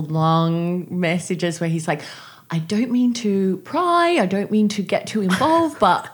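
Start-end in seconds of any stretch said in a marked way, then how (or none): 2.5-6.1 put-on Kit's terrible accent. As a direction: mimic the producer's accent badly, stretching the words. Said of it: "I'm doing a terrible accent here".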